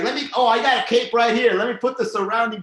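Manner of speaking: hammed-up fake helpfulness; mock sly offer. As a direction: play the too-friendly guy with the cape. Acting out a sly cape offer.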